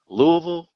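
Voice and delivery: Louisville squashed into "LOO-uh-vul"; Louisville with the middle swallowed, locals' way; local Louisville pronunciation. Shown as a demonstration. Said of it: "in this area, you say".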